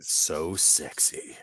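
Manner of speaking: breathy whispered aside. Acted. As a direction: whisper it like a sly joke. Whispered joke after remark.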